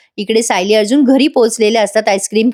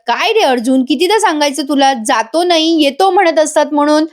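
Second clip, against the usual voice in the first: a mother-in-law chiding her son with raised pitch; scolding mother-in-law; 5 semitones higher than usual. Acted. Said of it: "कल्पनाताई ओरडतात". (सासूबाईंचा थोडा उंच आवाजातला लटका ओरडा)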